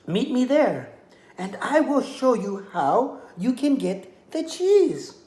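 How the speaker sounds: high, pleading little lamb voice; a small lamb talking her way out of danger. Acted. Lamb pleads with the hungry coyote, high and sweet.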